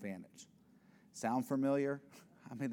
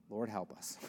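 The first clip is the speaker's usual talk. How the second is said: softer, lower plea; quiet prayer; 4 semitones lower, 7 dB quieter than usual. Real, not acted. Preacher praying for his listeners, hushed. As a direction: murmur it as a prayer.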